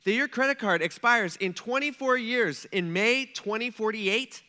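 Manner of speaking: the clerk's patience finally snapping; phone clerk fed up with the caller, incredulous; frustrated clerk. Retold or imitated. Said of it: "she's getting a little frustrated with me".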